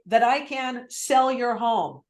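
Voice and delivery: slow, deliberate, with weight on "sell"; slow, stressed "sell" in "That I can sell your home"; slow embedded command. Shown as a demonstration. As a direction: plant "That I can sell your home" slowly in their head. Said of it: "Embedded command".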